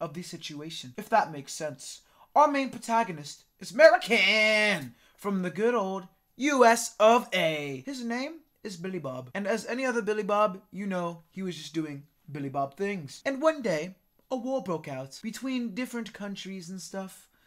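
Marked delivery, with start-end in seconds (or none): 2.3-17.3 attempted, put-on British accent. Introducing a story's protagonist, the speaker narrates in a put-on British accent. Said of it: "Am I even doing a British accent right now?".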